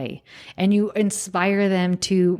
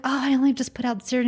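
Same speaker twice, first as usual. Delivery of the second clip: fast, higher mock-sheepish admission; quick hammed-up apology; sheepish wife; 6 semitones higher, faster than usual. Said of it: "And you're like".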